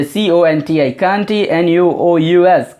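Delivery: slow spelling out. Shown as a demonstration. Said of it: "कंटिन्यूअस का spelling देख लीजिए".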